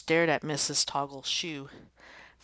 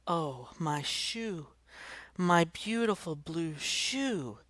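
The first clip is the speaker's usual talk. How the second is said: mild lament; 3 semitones higher, slower than usual. Acted. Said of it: "cried Missus Toggle".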